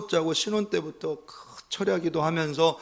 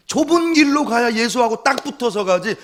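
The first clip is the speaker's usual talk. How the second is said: louder and higher, hammering 붙어서; loud emphatic; 9 semitones higher, 8 dB louder than usual. Acted. Pastor restating his point to the congregation, loud and emphatic. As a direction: shout the point home with 붙어서 stressed. Repeats it loudly.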